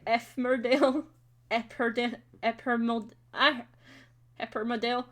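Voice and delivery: "Epmerdale" with a p sound in place of the double m; garbled name. Shown as a demonstration. Echoing what it sounds like, garbled "Eppermodale". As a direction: stumble through "Eppermodale", p instead of m. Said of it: "It sounds like you're saying".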